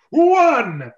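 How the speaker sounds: countdown call. Acted. Captain counting down the execution. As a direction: call the number.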